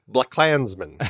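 "Black Klansman" run together as one big word; run-together title. Shown as a demonstration. Host showing how to say the film title, "Black Klansman" as one word. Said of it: "is, I think, how you say it".

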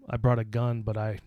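low, soft, creepy deadpan retelling. Retold or imitated. Creepy classmate answering the girl who confronted him, creepily. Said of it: "he said it, like, really creepily".

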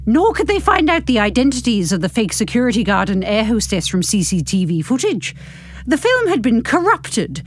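measured novel-reading voice; story narration. A narrator's reading. Narrator reading a novel to podcast listeners, measured narration. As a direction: read the story out with care. Reads the epilogue aloud.

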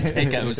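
TACOS said "TAY-kos"; mock mispronunciation. Laughing at a bandmate's word, TACOS as "TAY-kos". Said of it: "there's a K in there somewhere".

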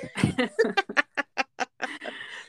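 a long bright laugh. Real, not acted. Host laughing at co-host's imitation, long and bright. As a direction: laugh freely at the quote.

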